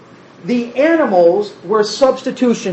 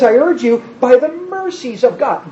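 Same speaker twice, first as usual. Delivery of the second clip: gentle appeal. Retold or imitated. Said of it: "He says".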